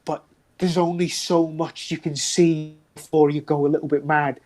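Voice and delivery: lightly voiced cultist, rattled and apologetic; a hint of a desperate captive; shaken prisoner. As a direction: play a haunted captive owning up. Prisoner NPC confession.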